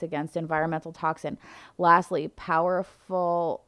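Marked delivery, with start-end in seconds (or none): 2.3-3.6 barely voiced, struggling for breath; strained whisper. Real, not acted. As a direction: push the word out in a faint whisper. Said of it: "I, like, could barely get that out".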